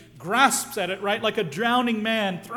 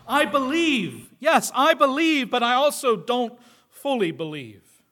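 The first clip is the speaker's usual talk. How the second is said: torn confession with the voice raised; a father crying out, half believing; earnest cry of faith; 3 semitones higher, 5 dB louder than usual. Retold or imitated. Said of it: "I'm torn".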